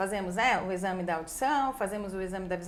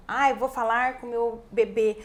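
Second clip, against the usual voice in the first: louder, exaggerated talking-to-baby voice; mock baby talk; 5 dB louder than usual. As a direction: babyish mispronounced speech in a swooping tune. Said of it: "E não é falar errado".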